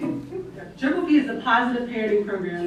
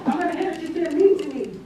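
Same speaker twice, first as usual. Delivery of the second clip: put-on whiny toddler; 5 semitones higher, faster than usual. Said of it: "I'm three years old".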